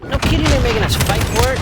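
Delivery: hoarse, scratchy sick voice; rough throat from a cold; raspy voice. Real, not acted. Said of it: "Sorry about my raspy voice".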